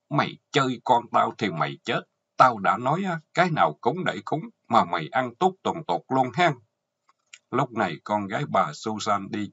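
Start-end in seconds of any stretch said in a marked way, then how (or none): 0.1-6.5 higher-pitched, seething threat; through gritted teeth. Acted. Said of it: "nghiến răng nói". (nghiến răng đe dọa, giọng cao hơn)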